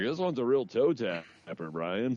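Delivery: lightly hammed-up record buff savoring a tune; mock vinyl snob. Teasing his friend about vinyl, a slow mock snob.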